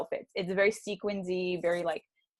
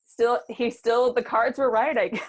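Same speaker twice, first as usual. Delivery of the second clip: mock reluctant self; 5 semitones higher, 7 dB louder than usual. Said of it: "I was like".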